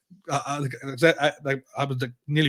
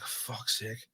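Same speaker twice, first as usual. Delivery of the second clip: muttered aside; 3 semitones lower, 16 dB quieter than usual. Retold or imitated. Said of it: "And I'm like".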